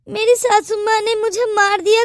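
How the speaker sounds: teary, self-pitying complaint; tearful. Acted. Daughter-in-law playing victim to the aunt, tearful. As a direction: sniffle it out like a victim.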